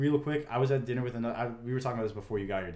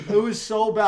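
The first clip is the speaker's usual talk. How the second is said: laughing hard, higher and louder; 10 semitones higher, 10 dB louder than usual. Real, not acted. Laughing while telling friends it went badly. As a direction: crack up while saying it. Laughing retelling a bad moment.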